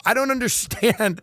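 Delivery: lightly voiced torturer to a musician; mock interrogator. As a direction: taunt the musician on the rack. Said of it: "put him up on the rack and go".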